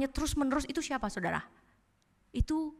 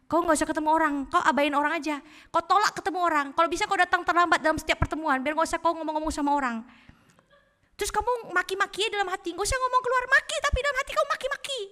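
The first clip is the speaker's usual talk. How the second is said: raised pitch, climbing higher as it goes; quick, pitched-up urging; devil's insinuation; 6 semitones higher, 3 dB louder, faster than usual. Acted. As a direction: play the tempter coaxing, ever higher. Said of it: "iblis bilang gini".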